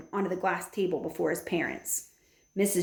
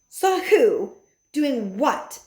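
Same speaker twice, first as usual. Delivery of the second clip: higher, louder bewildered questions; baffled; 6 semitones higher, 5 dB louder, much slower than usual. A narrator's reading. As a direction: snap the questions in confusion. Jenkins parents baffled.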